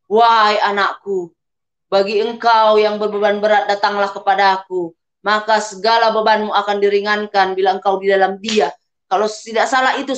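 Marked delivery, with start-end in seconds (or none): 0.1-8.7 lightly voiced booming call from above; echoing divine voice. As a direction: intone it like a voice from heaven. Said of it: "saya mendengar suara menggema".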